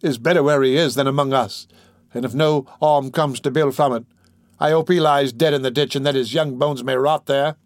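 mildly heated defiance; bitter outburst. Acted. Girl telling Fagin the child is better dead, bitter. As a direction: push it out with a touch of bitterness.

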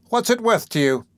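high-pitched, collected woman's voice; self-possessed bargaining. A narrator's reading. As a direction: ask it coolly, pitched well up. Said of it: "as collectedly as before".

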